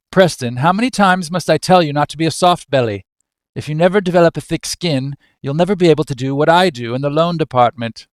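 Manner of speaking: a touch of exasperation, lecturing your son briskly; mild aggravation. Acted. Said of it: "drops his silverware in aggravation".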